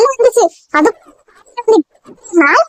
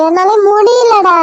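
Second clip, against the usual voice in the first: weary; 4 semitones higher, much slower than usual. Acted. Mother with headache.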